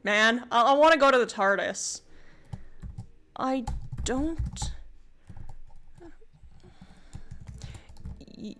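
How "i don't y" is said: slow, hesitant little creature voice; a lightly voiced small dragon, lost and unsure; puzzled creature drawing each word out slowly; timid cat dragon. Player voices confused cat dragon.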